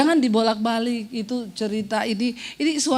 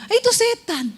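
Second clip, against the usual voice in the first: higher, laughing Eh itu setan; 8 semitones higher than usual. Real, not acted. Preacher laughing at the devil's voice. Contrast to God's voice.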